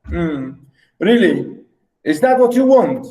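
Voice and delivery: sarcastic jab at his wife. Shown as a demonstration. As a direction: say it with a doubting sneer. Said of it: "in a sarcastic way".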